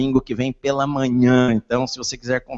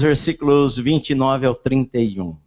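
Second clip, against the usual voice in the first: normal talking voice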